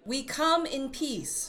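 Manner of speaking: slow, careful words for aliens; slow and deliberate. Acted. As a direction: spell it out slowly so a translator can follow. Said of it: "for our universal translator to finish processing".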